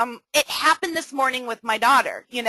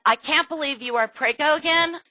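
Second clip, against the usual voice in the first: bright, delighted take on the news; upbeat congratulating tone; cheerful reading; 3 semitones higher than usual. Shown as a demonstration. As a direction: read it as happy surprise. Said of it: "Can you see how one could be completely misrepresented".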